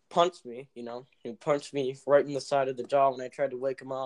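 talking with jaw clamped shut; can't open mouth. Real, not acted. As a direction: speak without opening the mouth. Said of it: "That's why you talk weird?".

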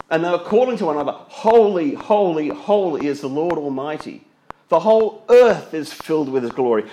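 high, loud ringing proclamation of holy; proclaiming loudly. Acted. Preacher to congregation, loudly voicing the angels' cry. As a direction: call it out like angels crying. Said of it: "angels' cry proclaimed".

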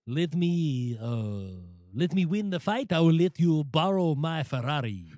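a light Haitian-French accent, mild and put on; lightly voiced Adonis with a hint of French. Teasing the champ, a light put-on Haitian-French accent. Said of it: "It's an interesting Adonis voice there".

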